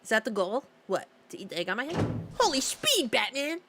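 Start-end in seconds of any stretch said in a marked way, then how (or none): 2.4-3.6 startled high exclamation. Real, not acted. Enemy rushes her.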